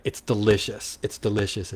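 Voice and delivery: flat monotone robot voice. Shown as a demonstration. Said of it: "I'm gonna talk like a robot".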